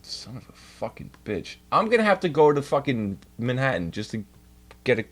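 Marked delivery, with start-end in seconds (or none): 0.0-1.6 whispered curse. Real, not acted. Cursing under breath.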